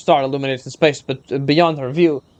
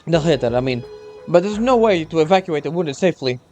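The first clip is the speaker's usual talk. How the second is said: lightly raised earnest soldier; young soldier voice; 2 semitones higher than usual. Acted. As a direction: explain urgently, a hint of nerves.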